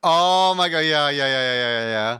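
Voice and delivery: loud burst, tumbling into repeated yeses; excited recognition. Real, not acted. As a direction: burst out as you suddenly recognise it. Excitedly recognises the animation described.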